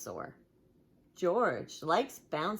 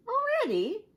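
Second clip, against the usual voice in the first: surprised grumble; 6 dB louder than usual. Acted. Daddy grumbles.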